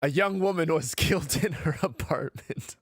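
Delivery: breaking into a laugh mid-sentence. Real, not acted. Reader laughing at how dark the game starts, real giggle mid-line. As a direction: try to narrate through real laughter. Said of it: "now I'm just laughing".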